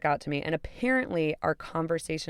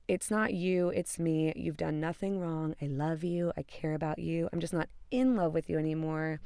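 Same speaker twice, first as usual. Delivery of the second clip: softer, toned-down recital of his excuses; imitated breakup cliché; 6 dB quieter than usual. Woman mimicking her boyfriend's typical breakup speech, quiet recital. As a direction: reel off the stock lines quietly, imitating him. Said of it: "he's doing the typical bullshit".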